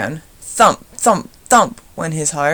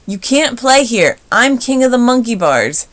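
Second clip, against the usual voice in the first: shouted; 5 semitones higher, 4 dB louder than usual. A narrator's reading. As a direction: drag out the threat, loud. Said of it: "Sammy shouted".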